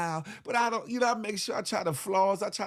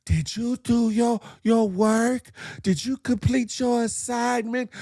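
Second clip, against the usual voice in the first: nagging teacher; 4 semitones higher, 4 dB louder than usual. Retold or imitated. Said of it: "She probably got in his face".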